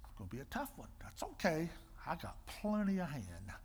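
whispered inner resolve; soft private whisper; whispered thought. Retold or imitated. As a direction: whisper it to yourself. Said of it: "And I thought".

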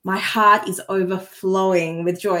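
beaming, sincere declaration; joyful energetic statement; heartfelt. Shown as a demonstration. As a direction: say it like it fills your chest. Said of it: "you can see my face change".

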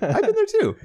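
laughing. Real, not acted. Answering co-host's joke, laughing. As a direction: laugh it out as you agree. Laughing while echoing co-host.

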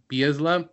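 Bielsa said bee-EZ-luh, z before l; mispronounced surname. Real, not acted. Host guessing at the coach's surname, mispronounced Bielsa as bee-EZ-luh. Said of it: "have a hard time saying his last name".

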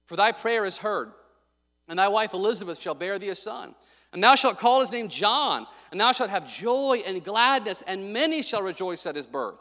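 measured, solemn Bible reading; scripture reading. Acted. Pastor reading Luke to the congregation, solemn. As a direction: read the King James verses with weight.

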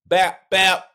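mock fight sounds.

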